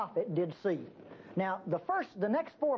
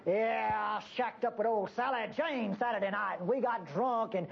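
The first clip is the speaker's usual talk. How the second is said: coarse coworker. Retold or imitated. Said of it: "The guys come in and say".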